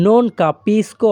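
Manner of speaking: very slow, non capisco drawn out clearly; slow teaching demo. Shown as a demonstration. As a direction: spell out non capisco slowly for learners. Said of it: "তাহলে Italian ভাষা". (non capisco ধীরে ধীরে স্পষ্ট করে)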